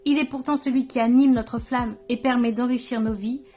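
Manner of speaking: measured recital of a poem, phrase by phrase; poem recitation. Acted. Sharing own poem on isolation with viewers, poem recitation. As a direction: recite it as verse, pausing between lines.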